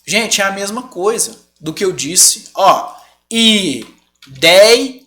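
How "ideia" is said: "ideia" split slowly into i, dei, a; "ideia" in three long separate beats, i - DEI - a; syllable by syllable. Shown as a demonstration. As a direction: stretch out each syllable of "ideia" with pauses. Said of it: "Cadê a sílaba tônica?".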